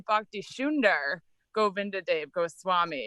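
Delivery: Bhakti Sundar Govinda Dev Goswami with shunder and Gobinda, Bengali sounds; Bengali-style Bhakti Sundar Govinda Dev Goswami; Bangla style. Shown as a demonstration. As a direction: say the names the Bengali way, S as sh. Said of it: "if we were pronouncing Bangla style".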